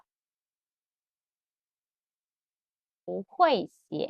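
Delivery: "我会写" stretched very long; drawn-out model. Shown as a demonstration. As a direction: hold the words for copying.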